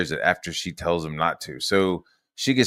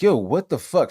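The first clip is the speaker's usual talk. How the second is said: higher, louder indignant challenge; mock outraged demand; retold confrontation; 8 semitones higher, 5 dB louder than usual. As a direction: act out calling someone out. Acting out confronting her.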